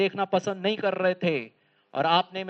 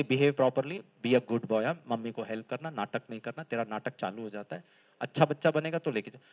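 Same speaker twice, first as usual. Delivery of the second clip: lower, softer warning voice; stern mother; 7 semitones lower, 5 dB quieter than usual. Retold or imitated. Mother quietly warns her son before the mall trip. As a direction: caution the child quietly before going out. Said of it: "mummy बोलती".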